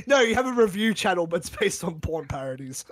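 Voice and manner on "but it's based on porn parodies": whispering. Real, not acted. Whispered aside.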